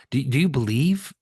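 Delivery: genuinely curious question. Shown as a demonstration. Coach showing a client question, curious. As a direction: lean in with curiosity. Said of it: "so curious".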